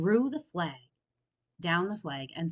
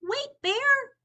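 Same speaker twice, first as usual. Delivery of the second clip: much higher, pleading; begging call; 7 dB louder than usual. A narrator's reading. Franklin begging Bear not to leave. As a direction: plead with him to stay. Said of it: "begged Franklin".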